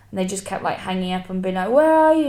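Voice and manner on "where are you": high, loud imitation of calling out; mock exasperated shout down the phone; retold phone yell. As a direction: imitate someone yelling for a lost friend.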